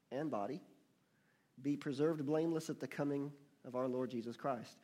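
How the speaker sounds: measured reading, phrase by phrase; emphatic scripture reading. Real, not acted. Preacher quoting First Thessalonians to congregation, measured and emphatic. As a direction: read it out firmly, pausing between the items.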